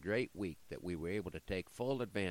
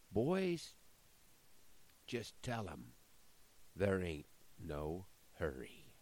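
sly, slow, smiling devil; slower than usual. Acted. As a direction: let the lie slide out with a smile. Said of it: "Then he smiled".

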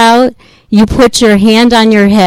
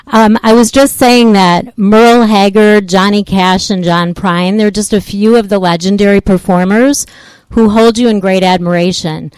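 louder, for a bad phone line; speaking louder; 2 semitones higher, 4 dB louder than usual. Real, not acted. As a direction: push the voice so she hears. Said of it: "I'll try to speak a little bit louder".

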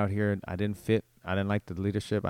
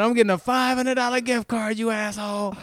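high, loud shrieked threat; screaming; 11 semitones higher, 5 dB louder than usual. Retold or imitated. Downed shoplifter screams at the guards, high and loud. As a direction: scream it like a wronged victim. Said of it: "he's screaming this in sporting goods".

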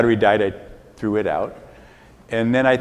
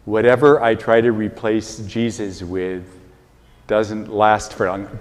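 slowed right down, pausing before "doesn't last"; slow and deliberate. Shown as a demonstration. Priest repeating his sentence to hear himself, slow and deliberate. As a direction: say it slowly, listening to your own words. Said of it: "say it slowly and listen to yourself".

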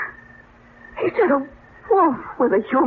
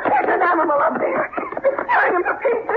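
horrified cry; 13 semitones higher than usual. Acted. Woman sees attack in street.

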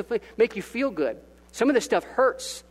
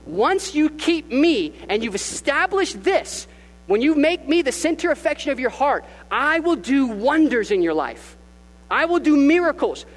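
rising promise; 6 semitones higher than usual. Retold or imitated. Jesus promises wonders, preached.

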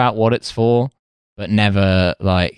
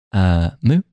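Hussein cow moo. Retold or imitated. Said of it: "what Hussein would sound like if he was a cow".

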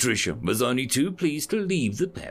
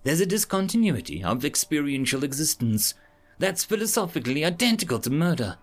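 lightly voiced alien, high and upset; a hint of a shaken alien; distraught alien; 6 semitones higher than usual. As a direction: plead it like a horrified creature. Mola explains, distraught.

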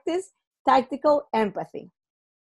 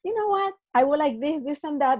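lightly friendly, asking nicely with a smile; a gentle smiling ask, bright on the opening; polite smiling version of the request; 3 semitones higher than usual. Shown as a demonstration. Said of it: "if you're in person and you smile".

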